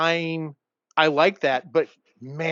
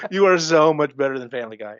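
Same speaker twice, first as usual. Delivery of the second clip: "You are so much better than Family Guy" said louder through a laugh; laughing insistence; laughing repeat; 4 dB louder than usual. Shown as a demonstration. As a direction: laugh while hammering the point home. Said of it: "But my God, you are so much better than Family Guy".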